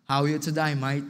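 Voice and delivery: light imitation of an Australian accent. Shown as a demonstration. Preacher shows how Australians greet each other, mock Australian accent. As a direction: greet with a hint of Australian twang. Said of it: "Ganun sila magsalita eh".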